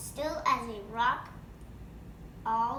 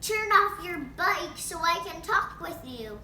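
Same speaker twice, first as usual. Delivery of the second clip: loud call; 6 semitones higher, 7 dB louder than usual. Acted. Frank shouts over the bike.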